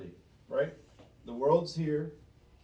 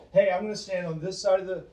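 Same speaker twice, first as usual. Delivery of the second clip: mock careless bystander; 6 dB louder, faster than usual. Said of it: "It's like saying".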